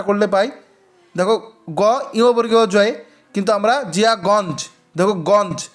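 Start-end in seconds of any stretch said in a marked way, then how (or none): 3.8-4.7 জিয়াগঞ্জ with ঞ said as a plain dental n. Shown as a demonstration. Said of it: "তাহলে দন্তান্ন উচ্চারণ করছি". 5.1-5.7 গঞ্জ with a plain n before জ; dental n. Shown as a demonstration. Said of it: "তাহলে দন্তান্ন উচ্চারণ করছি".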